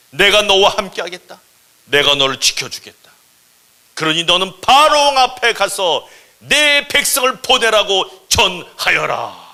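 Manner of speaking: loud, ringing divine decree; solemn command. Acted. God sending Moses before Pharaoh, loud majestic command. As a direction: proclaim it, slowing grandly to the end.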